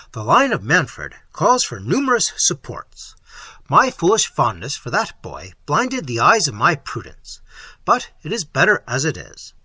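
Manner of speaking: a hard prince brushing off his son's death; a proud tyrant dismissing grief; Manfred, cold prince. Acted. Manfred's voice held through speech.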